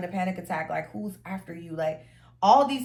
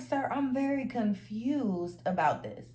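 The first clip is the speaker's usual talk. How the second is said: mock formal confusion; 3 semitones higher than usual. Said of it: "I'm like".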